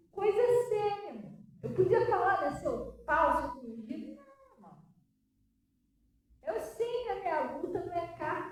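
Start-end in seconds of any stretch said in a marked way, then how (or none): none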